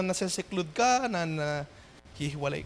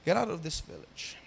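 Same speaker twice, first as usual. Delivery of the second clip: softer echo of the line; 5 semitones lower, 8 dB quieter than usual. Shown as a demonstration. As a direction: let the rejection sink in quietly. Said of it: "You see?". (mahinang pag-uulit, diin sa out)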